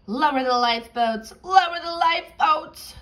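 high, loud panicked squawk; squawking parrot. Acted. Parrot panicking on deck, loud high squawking. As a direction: shriek the alarm like a bird. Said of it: "squawked the parrot".

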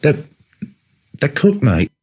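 high, halting nervous stutter. Acted. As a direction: stumble on the first word, then pipe up. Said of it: "Jack stutters".

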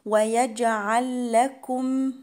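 "ويجعل لكم" chanted slowly with one doubled l; merged laam. Shown as a demonstration. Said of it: "هنا اللام،". ("ويجعل لكم" بإدغام اللام)

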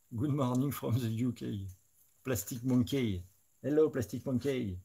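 light put-on English accent, unhurried; mock English accent. Painter greets a British viewer in a mild mock English accent. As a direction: greet them like a Brit, half-joking.

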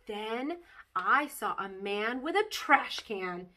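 put-on lively read-aloud of a kid's chapter book; bouncy child-narrator storytelling; story reading. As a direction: tell it like a bedtime story to children. Reads Junie B. story aloud.

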